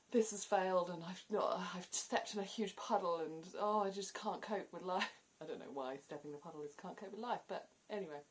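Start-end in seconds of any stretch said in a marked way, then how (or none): 0.1-5.1 mock despair. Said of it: "go into this whole detail".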